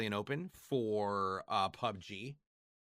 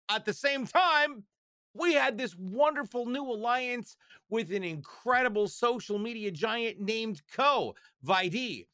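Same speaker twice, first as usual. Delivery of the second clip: mock announcer voice; 10 semitones higher, 4 dB louder than usual.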